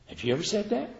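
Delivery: usual speaking voice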